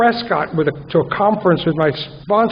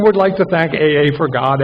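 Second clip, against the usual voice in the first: sincere; 4 semitones lower than usual. Real, not acted. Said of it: "without joking".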